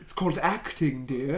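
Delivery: haughty theatrical put-down; posh mock actor. Teasing cohost about committing to the accent. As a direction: deliver it like a grand old actor.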